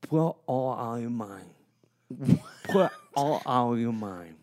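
rousing locker room coach; coach pep talk. Acted. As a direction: fire up the team like a coach. Plays coach giving pep talk.

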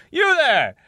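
high, panicked cartoon voice; high squeaky character voice. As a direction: squeak it out like a frightened settler. Voicing the man in the photo.

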